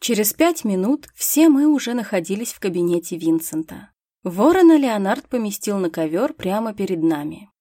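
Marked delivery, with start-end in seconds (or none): none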